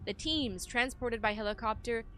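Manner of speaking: measured, solemn expedition narration; journal read-aloud. Acted. Player reading a searcher's account of the pass, solemn narration.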